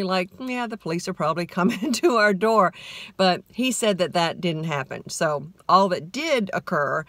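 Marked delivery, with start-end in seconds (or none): 0.4-2.7 casually calm, laughing partway; lightly mocking husband's casual tone. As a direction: shrug it off like it's nothing. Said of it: "you say that so calmly".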